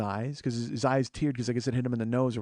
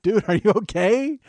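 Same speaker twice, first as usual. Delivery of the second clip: retold alarm; 7 semitones higher, 6 dB louder, slower than usual. Retold alarm at injured driver.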